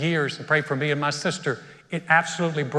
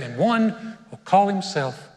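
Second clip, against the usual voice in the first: choked up. Real, not acted. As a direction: voice dropping away as emotion takes over. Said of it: "why do you get choked up".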